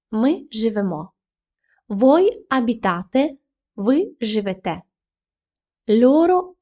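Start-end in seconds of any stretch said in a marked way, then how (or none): 2.5-3.4 abitate with the stress moved onto -ate; stress on the ending. Shown as a demonstration. Teacher showing learners the stress shift, abitate stressed on -ate. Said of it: "наголос перейшов на закінчення".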